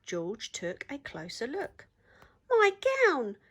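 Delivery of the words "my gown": much higher, louder joyful shout; delighted yell. Acted. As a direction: yell with joy at finding it. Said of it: "he yelled".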